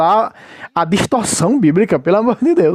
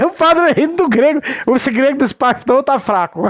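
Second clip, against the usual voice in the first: higher voice bubbling with real laughter; amused jeering; 5 semitones higher than usual. Real, not acted. Commentator mocking the pastor's weak Greek, laughing jeer. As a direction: laugh your way through the taunt.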